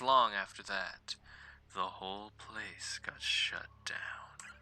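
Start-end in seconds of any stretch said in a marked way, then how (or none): 1.7-4.5 creepy whisper. Acted. Reading creepy ghost story text.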